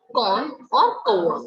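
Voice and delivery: slow, each word spelled out clearly for pupils: कौन और कौआ; slow careful demo. Shown as a demonstration. Teacher to pupils, slow careful demonstration. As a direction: say कौन और कौआ slowly so children catch the vowel. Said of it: "ध्यान से समझना है".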